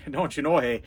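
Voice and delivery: playful Minnesotan twang; Minnesotan accent. Pretend. Vlogger joking about being kind of a Minnesotan, mock Minnesotan accent. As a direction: put on a folksy Minnesotan accent. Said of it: "did that come out Minnesotan there".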